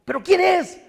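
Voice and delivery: high, loud outraged who-is-he; David asks indignantly, high and loud; indignant question. Retold or imitated. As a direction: demand it in disbelief.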